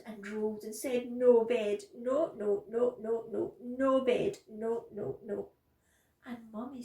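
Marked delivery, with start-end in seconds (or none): 1.1-5.5 loud, repeated refusal; loud protest. A narrator's reading. Bella rolling about at bedtime, loud protest. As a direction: insist like a child fighting bedtime.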